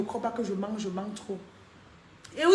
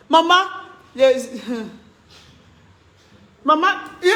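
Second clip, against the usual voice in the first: surprised call; 4 semitones higher, 8 dB louder than usual. Real, not acted. Exclaims at a comment.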